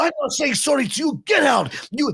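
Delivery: high mock-shouted heel boast; heel taunting a crying kid. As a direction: bellow it like a gloating villain at a crying kid. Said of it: "He goes".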